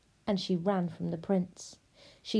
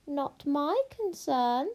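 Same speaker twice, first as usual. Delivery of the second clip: dismissive witch; 5 semitones higher, slower than usual. Acted. Witch dismisses hungry princess.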